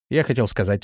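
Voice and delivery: ordinary delivery, nothing marked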